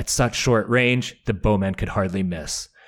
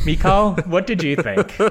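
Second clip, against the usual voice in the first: asking through a laugh; 9 semitones higher than usual. Real, not acted. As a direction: toss the question with a laugh. Laughing question to co-host.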